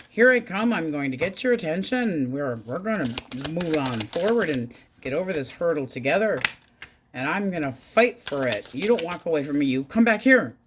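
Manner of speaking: loud, insistent demand rising to a shout; mock pushy ex. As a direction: bark it like an ex refusing to let go. Mocking ex chasing partner back.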